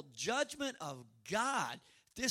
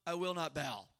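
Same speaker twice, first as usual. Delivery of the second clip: defiant refusal. Retold or imitated. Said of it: "shaking their fist at the sky".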